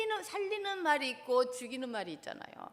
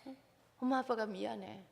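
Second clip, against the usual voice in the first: put-on gentle apology to child. Shown as a demonstration. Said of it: "나 사과부터 먼저 하라 그랬어요". (자녀에게 사과하는 부드러운 부모 목소리)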